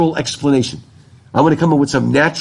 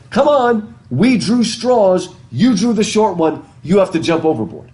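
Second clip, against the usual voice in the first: higher-pitched cartoon pleading, easing down; mock urging; 6 semitones higher than usual. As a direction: act out an exasperated push to jump. Acting out cartoon caption, urging the jumper.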